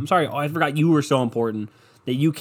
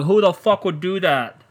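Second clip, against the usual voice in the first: mock disbelief; 7 semitones higher, 5 dB louder, slower than usual. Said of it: "They pick somebody, like".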